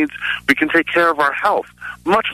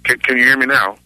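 louder into the phone; speaking up louder; faster than usual. Real, not acted. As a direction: raise your voice so they hear. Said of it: "speak directly into the receiver, kinda loudly".

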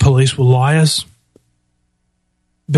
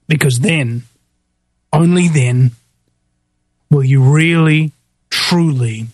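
grave emphasis. Real, not acted. Host delivers grave warning to listeners.

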